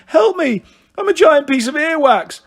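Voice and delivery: high, loud, wailing plea; hammed-up panicky whine; tearful boy. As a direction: bawl for help like a child. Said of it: "burst into tears".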